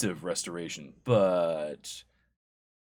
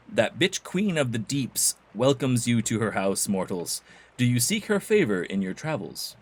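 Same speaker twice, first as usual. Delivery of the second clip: formal, lightly theatrical priestess; temple priestess; 4 dB louder than usual. Acted. Priestess welcomes mortals, formal and lightly theatrical.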